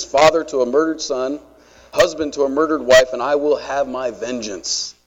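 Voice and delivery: a hint of Russell Crowe's grim Maximus; Maximus speech. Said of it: "You impressed with that? That was good, wasn't it?".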